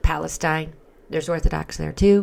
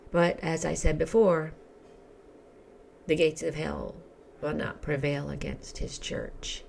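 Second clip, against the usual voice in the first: frog voice. Real, not acted. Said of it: "sorry for my frog voice".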